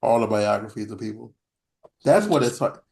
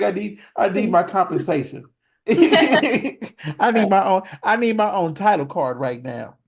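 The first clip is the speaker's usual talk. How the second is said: mock diva dog; 6 semitones higher, 4 dB louder than usual. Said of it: "He's like".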